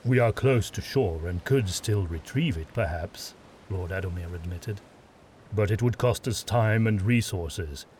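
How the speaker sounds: a commanding lord giving measured praise; stern witch hunter lord. Acted. Adomir voiced by narrator.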